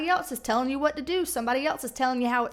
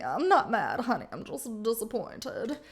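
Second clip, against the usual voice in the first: lightly voiced, guilt-tripping mother; a hint of a sweetly disappointed mom; mock mom letting you down gently; 4 semitones lower than usual. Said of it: "she can be".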